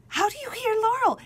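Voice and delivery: high, disbelieving question; incredulous question. Retold or imitated. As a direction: ask it in total disbelief. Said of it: "I was like".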